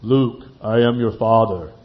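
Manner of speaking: a hint of a solemn, deep film voice; Darth Vader. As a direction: drop the voice into a mild villain impression. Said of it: "who's the voice of".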